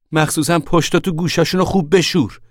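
loud, high-pitched shout after someone; calling out. A narrator's reading. Mother shouts washing orders after Papa, calling out loudly. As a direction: shout it after him as he walks off. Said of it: "مادر پشت سرش داد زد".

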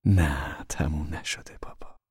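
soft, tender denial with a smile; smiling reassurance. A narrator's reading. Mother telling father life is not over, soft and smiling. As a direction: fade gently to almost a whisper. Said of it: "لبخند زد و گفت".

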